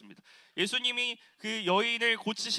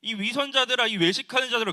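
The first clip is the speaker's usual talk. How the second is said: raised, higher, louder cry of 위선자들아; loud rebuke; 4 semitones higher, 6 dB louder than usual. Retold or imitated. Jesus rebuking the synagogue ruler, loud and stern. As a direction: rebuke the hypocrites at full voice. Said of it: "예수님께서 이렇게 말씀하시는 겁니다".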